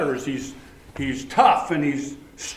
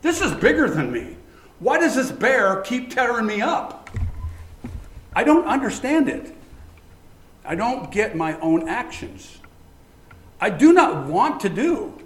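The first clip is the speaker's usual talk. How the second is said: higher, bewildered plea; voicing Paul's confusion; 5 semitones higher than usual. Paul voiced as a preacher cries out in confusion. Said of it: "It's like".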